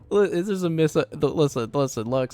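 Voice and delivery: flustered protest. Real, not acted. Flustered denial after being teased.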